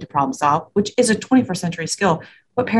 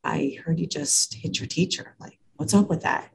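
casual, friendly, no judgment in it, a bit softer; elevator tone of voice; 7 dB quieter than usual. Shown as a demonstration. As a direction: ask like chatting with a stranger in a lift. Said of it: "It's called the elevator tone of voice".

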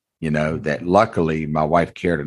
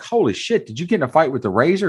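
mock shocked coworker; 8 semitones higher than usual. Coworkers' shocked reaction quoted.

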